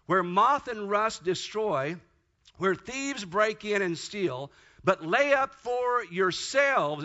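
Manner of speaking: reading Matthew six to the congregation, slowly; slow scripture reading. Acted. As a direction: build weight into each clause.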